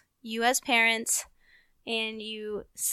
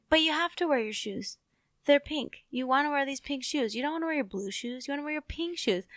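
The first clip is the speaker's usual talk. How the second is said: a parent's higher-pitched coaxing; reasoning with toddler; 4 semitones higher than usual. Retold or imitated. Parent reasoning with a two-year-old about shoes, mild coaxing. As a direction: plead sensibly with a toddler, pitched up. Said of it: "trying to reason with my almost two-year-old".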